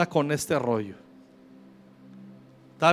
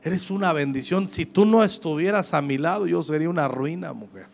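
softer, gentle thanks to the wife; tender thanks; 5 dB quieter than usual. Retold or imitated. Husband hugging his wife and thanking her, soft and tender. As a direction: murmur it while holding her close.

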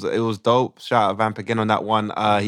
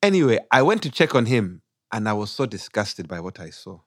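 put-on Ugandan accent; 2 semitones lower than usual. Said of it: "we do it in a Ugandan accent".

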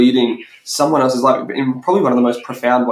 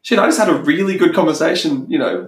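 surprised realisation; 4 semitones higher than usual. Retold or imitated. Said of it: "you're like".

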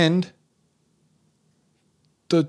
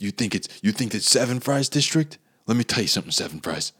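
lightly voiced stern police chief. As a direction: lay down the law as a mock veteran chief. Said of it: "he's always talking like this".

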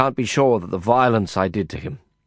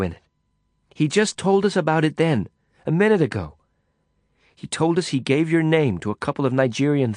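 a hint of a higher woman's voice, pleading her case; urgent explaining, slightly raised; woman defending her friend, urgent and higher; lightly voiced Lisa, urgent; 4 semitones higher than usual.

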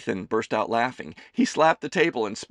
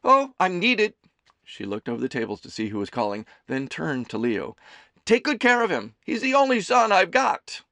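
high, loud doting mother voice; a fussing mother teasing her son; Amelie's voice; 9 semitones higher, 6 dB louder than usual. A narrator's reading. Mother serving her son lunch, high and fussing.

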